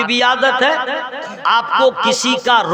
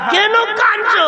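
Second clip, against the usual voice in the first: playful; 10 semitones higher than usual. Pretend. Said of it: "हाँ".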